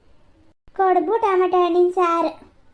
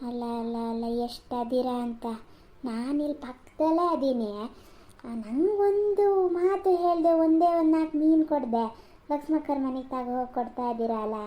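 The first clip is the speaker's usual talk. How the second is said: jealous grumble; 4 semitones lower, 5 dB quieter than usual. Acted. Grumbling aside about the neighbours.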